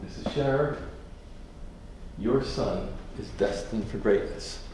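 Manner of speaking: gentle pharmacist. Retold or imitated. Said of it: "And he said".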